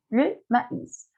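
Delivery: "Le maíz" with A and I as separate vowels; diaeresis vowel sounded. Shown as a demonstration. Teacher shows the diaeresis, "maíz" with the I sounded fully. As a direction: say French "Le maíz" in two syllables, ma-ees. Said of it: "Cuando ustedes tienen la diéresis".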